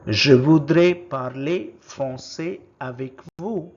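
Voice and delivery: first take, projected clearly for the class; loud model word. Shown as a demonstration. Teacher modelling a French word for learners, loud and clear. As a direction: call out the French word loudly. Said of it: "How do you say it in French".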